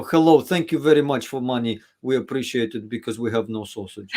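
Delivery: put-on hammy Soviet Russian accent; comic Russian comrade accent; mock Russian accent. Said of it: "put on the Soviet hat and start talking like this".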